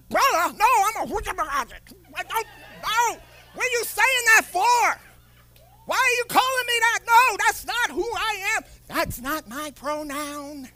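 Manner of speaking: high, indignant mock protest; hammed-up outrage at being called brother; a pretend offended listener, high and put out. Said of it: "people are like".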